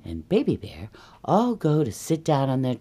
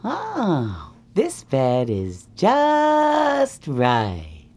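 drawn-out, cosy sigh of relief; contented Goldilocks; 3 semitones higher, much slower than usual. Acted. Goldilocks snuggles up in bed, drawn-out contentment. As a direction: stretch it out as Goldilocks settling in.

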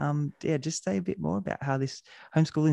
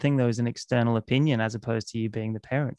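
sarcastic. Acted. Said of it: "I mean that sarcastically, dear listener".

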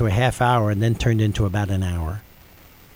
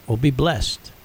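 a hint of a calm old woman; calm blessing. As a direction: say it gently, like a kind elderly stranger. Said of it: "in a real calm voice and said".

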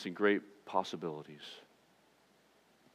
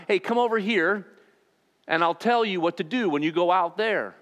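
breezy call from across the way, higher and louder; casual beckoning call; 7 semitones higher, 4 dB louder than usual. Pretend. Pastor voicing a Jesus who only shouts directions: higher, breezy call. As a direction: toss it off like a casual wave over.

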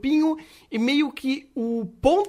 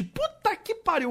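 exasperated groan; 10 semitones higher, 4 dB quieter than usual. Real, not acted. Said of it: "mas é insuportável".

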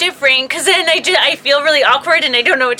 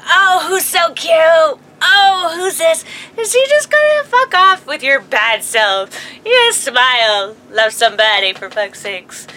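put-on baby talk; 2 semitones higher than usual. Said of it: "And I'm like".

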